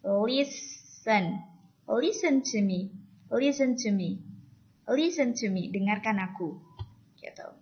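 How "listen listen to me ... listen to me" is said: "Listen" as "lisən", slowly and distinctly; silent T. Shown as a demonstration. Teacher repeats for learners, "listen to me" with silent T. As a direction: drop the T in every "listen". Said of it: "Jadi T-nya tidak dibaca".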